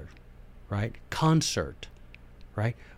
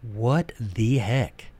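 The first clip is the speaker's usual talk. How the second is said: mock baffled; 3 semitones lower, 5 dB quieter, much slower than usual. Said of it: "is like".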